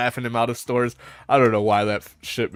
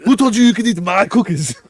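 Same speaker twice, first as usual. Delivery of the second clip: higher, louder mock outrage; Arnold outraged; 8 semitones higher, 5 dB louder than usual. Arnold confronting the neighbor over his wife's cookies, loud mock outrage. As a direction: accuse him, half laughing.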